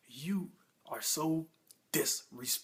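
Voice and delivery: slow, measured retold anger; angry Walt mode. Husband berates wife over the phone, slow retold anger. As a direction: space the words out in mock indignation. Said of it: "goes into his angry Walt mode".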